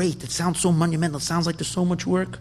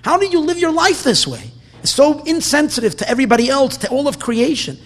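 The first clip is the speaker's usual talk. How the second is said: mock self-scolding yell; 8 semitones higher, 5 dB louder than usual. A man scolding himself for his sins, in a higher, louder mock yell. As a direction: scold your own soul like a stern father, rising in pitch. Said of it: "a person yells at himself".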